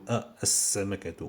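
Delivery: "As-Samakatu" going from A straight into s; direct liaison. Shown as a demonstration. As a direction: glide from the A of "As-Samakatu" into a doubled s.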